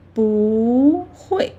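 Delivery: long 不 rising, then 会 falling. Shown as a demonstration. Teacher contrasts 不会 with lone 不, 不 rising. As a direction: glide up on 不 before 会. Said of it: "rising tone".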